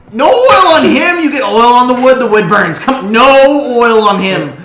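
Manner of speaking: high, very loud panicked shouting; panicking gnome. Acted. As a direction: yell frantically to stop a disaster. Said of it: "Than's face turns white at this point".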